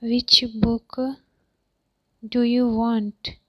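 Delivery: long pause after "Which book"; two separate, deliberate pieces split after "book"; chunked teaching repeat. Shown as a demonstration. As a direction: give learners "Which book", wait, then the rest.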